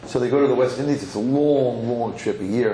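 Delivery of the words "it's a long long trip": LONG drawn out each time; stretched LONG. A narrator's reading. Storyteller describes the year-long voyage to the West Indies, stretched LONG. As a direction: dwell on both longs to stretch the voyage.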